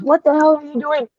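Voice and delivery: high, sharp mock boss yell at a worker; imitating a boss yelling at a worker; retold yell. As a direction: bark it like an angry foreman. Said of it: "yells at him and says".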